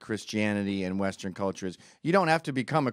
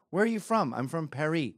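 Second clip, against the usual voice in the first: mock French accent; 3 semitones higher than usual. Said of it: "No one says that".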